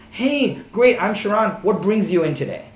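a buyer mocking an agent's canned greeting. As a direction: parody a scripted open house agent. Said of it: "the one question that I get".

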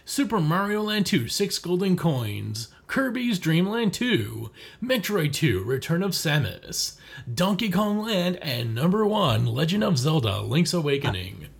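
big dramatic announcer read. Acted. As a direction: read the list like a TV show announcer. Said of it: "uh, announcer voice".

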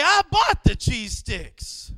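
pretend-yell it from the front seat; mock indignant shout. Dad to daughter in the car, mock shout. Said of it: "I wanted to turn around and say".

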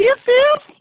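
high, loud yell; high shout. Real, not acted. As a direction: bellow it out high. Shouting the count.

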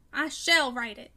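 slow, firm stress on "shall"; resolute. A narrator's reading. Son insisting he will write it, resolute with "shall" stressed. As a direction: punch "shall" loud and drawn out.

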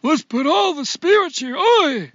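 put-on high, slow old Jewish man from Maine. Co-host mimicking her accent attempt, old Jewish man. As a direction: exaggerate an old Jewish man's kvetching cry. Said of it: "like an old Jewish man from Maine".

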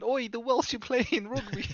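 high, drawn-out mock announcement; hammed-up high-pitched "oi" to a crowd; mock call-out. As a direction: call it out like a comic townsperson. Mock shout of Londoners leaving town.

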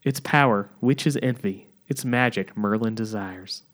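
stagey Southern barkeep pitching a potion; attempted Southern accent. Bartender urging Margaret to save her lover, attempted Southern accent. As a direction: declaim it with a put-on Southern accent. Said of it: "it's supposed to be Southern".

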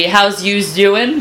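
put-on slow, teasing Brooklyn accent echo. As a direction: repeat it slowly in a Brooklyn accent. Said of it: "That was, that was Brooklyn right there".

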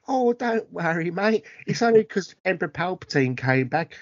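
lightly hammed Cockney reassurance; bad Cockney accent. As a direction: shrug it off in mock Cockney. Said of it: "real bad Cockney accent".

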